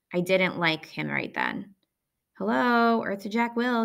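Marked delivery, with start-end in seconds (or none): 2.3-3.8 higher-pitched taunting call for attention; teasing call. Acted. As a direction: tease him as if he's miles away. Teasing Jack who didn't answer.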